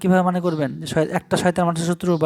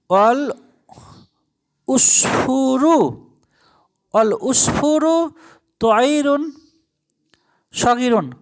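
slow Arabic reading; 4 semitones higher, much slower than usual. Shown as a demonstration. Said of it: "teacher reads Arabic slowly".

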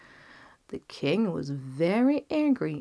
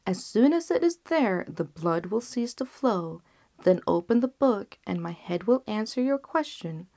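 lightly voiced, composed last wish; calm physician; 3 semitones higher than usual. Physician instructs the king.

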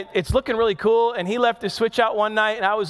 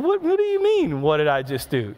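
feigned innocence; 4 semitones lower than usual. Retold or imitated. Dad caught cheating by his young son, feigning innocence. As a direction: play dumb, voice leaping up then falling.

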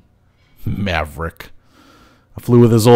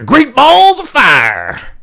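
thrilled exclamation; 12 semitones higher, much slower than usual. Acted. Flyby past the tower.

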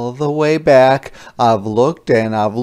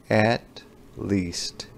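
whispered aside; 3 semitones lower, 8 dB quieter than usual. A narrator's reading. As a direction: whisper the last words. Aside while planning the parade.

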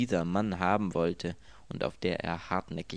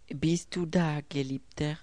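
tender and soft; 7 semitones higher than usual. A narrator's reading. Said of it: "sagte die Stimme sanft".

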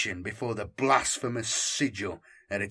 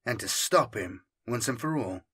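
softer, grim, resolute murmur; grim inner thought; 5 dB quieter than usual. Acted. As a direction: think it quietly and grimly. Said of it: "Santos thought grimly".

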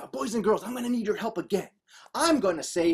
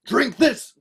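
louder, urgent call; shouted order; 3 semitones higher, 5 dB louder than usual. Acted. Boogie shouted to the fighter, brisk shout. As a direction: call it out as a command. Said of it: "Boogie shouted".

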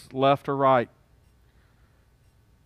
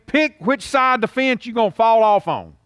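lightly voiced father, pitched up; daddy's saying; 8 semitones higher, 4 dB louder than usual. Preacher quotes his daddy to the congregation, lightly voiced father. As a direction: give it as a dad's emphatic order. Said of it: "as my daddy would say".

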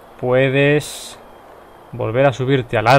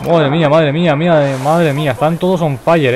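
louder, rapid excited exclaiming; 2 semitones higher, 4 dB louder than usual. Real, not acted. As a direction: marvel at the chaos on screen. Chaotic fight, repeated exclamation.

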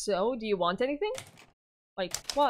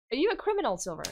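put-on higher, condescending child; smug boy king; 3 semitones higher, faster than usual. Yuri patronizing Silver, higher smug child voice. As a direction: talk down to an adult.

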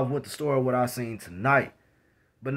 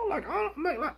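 laughing; 12 semitones higher, 8 dB quieter than usual. Real, not acted. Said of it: "laughs mid sentence".

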